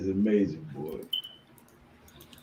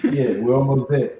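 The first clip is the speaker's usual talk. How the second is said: smooth; 4 dB louder than usual. Acted. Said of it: "he say it so smooth".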